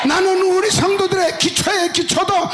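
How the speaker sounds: loud, high repentant cry; tearful confession. Pretend. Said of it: "울고 통과하고".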